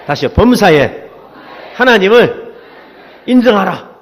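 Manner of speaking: punchy call-and-response lead; strong, separated phrases; loud call to repeat. Shown as a demonstration. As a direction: call it out for the congregation to echo. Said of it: "한번 크게 따라해서 해보세요".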